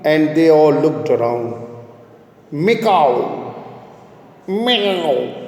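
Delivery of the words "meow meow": cat meow. Shown as a demonstration. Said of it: "That is actually meow".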